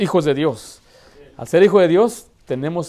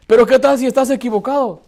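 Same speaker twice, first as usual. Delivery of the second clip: challenging doubter; 8 semitones higher, 7 dB louder than usual. Acted.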